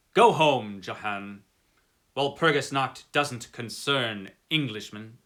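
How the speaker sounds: loud, curt order; firm dismissal. Acted. Traveller orders the coachman home, loudly and firmly. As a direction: send him off with a firm command.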